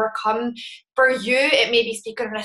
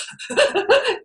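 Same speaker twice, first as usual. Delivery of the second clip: high mock sobbing gasps; crying fit; 13 semitones higher than usual. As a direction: imitate a hiccuping crying fit. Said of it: "I was in one of those fits of".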